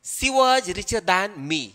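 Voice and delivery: slow model of the wrong form; slow wrong example. Shown as a demonstration. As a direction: read the wrong version slowly. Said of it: "जो wrong होगा". (गलत वाक्य धीरे-धीरे)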